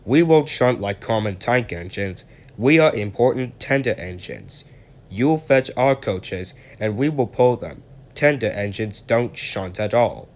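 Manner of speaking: proud, cheeky tender engine lording it; rude boasting. Acted. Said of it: "said Gordon rudely".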